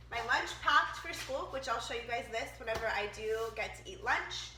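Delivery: stuffy nose, sick and nasal. Real, not acted. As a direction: talk through a blocked nose. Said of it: "so if I sound nasally".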